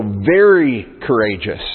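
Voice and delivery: "very" drawn out and punched; emphatic VERY. Shown as a demonstration. Preacher points out God's command to Joshua, heavy stress on "very". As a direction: lean slowly and hard on "very". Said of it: "It's emphatic".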